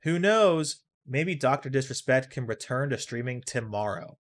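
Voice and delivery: a hint of a newscaster; mock news anchor sign-off; TV reporter voice. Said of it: "the fake re-, T V reporter voice".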